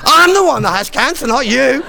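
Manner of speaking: retold shout. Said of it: "I said".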